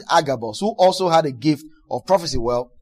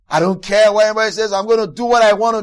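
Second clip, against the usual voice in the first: arrogant person; 3 semitones higher, 5 dB louder, faster than usual. Retold or imitated. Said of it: "I've met a lot of people that do that".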